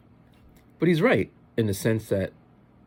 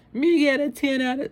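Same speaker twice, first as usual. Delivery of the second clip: high, loud mock Jamaican little boy; attempted Jamaican accent; 6 dB louder than usual. Little Jamaican boy answering his mom, imitated Jamaican accent. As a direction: try a Jamaican kid's accent, pitched way up. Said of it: "I can't do his accent".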